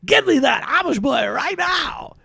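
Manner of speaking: high, loud star's command; demanding shout. Acted. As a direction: bark orders like a spoiled star. Star demanding the Amish boy.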